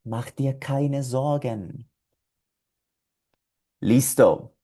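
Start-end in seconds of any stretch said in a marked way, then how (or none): 0.0-1.9 reassuring. Pretend. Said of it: "tú le puedes decir".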